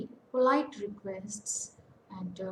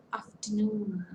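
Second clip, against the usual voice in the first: "Afternoon" with stress on its last syllable; teacher's demo of "Afternoon", NOON stressed; stress on third syllable. Shown as a demonstration. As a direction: hold the long vowel in the NOON of "Afternoon". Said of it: "the third syllable is getting stressed".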